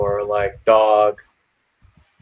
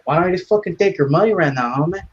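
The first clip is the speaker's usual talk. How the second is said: higher, taunting cholo voice; cholo threat; 6 semitones higher, faster than usual. Retold or imitated. Cholo taunting the dad for his money, higher voice. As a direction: taunt him like a street tough. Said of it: "It's like".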